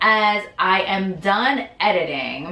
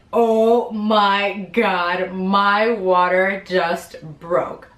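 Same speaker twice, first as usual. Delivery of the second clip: stunned; much slower than usual. Retold or imitated. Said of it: "that's what I said".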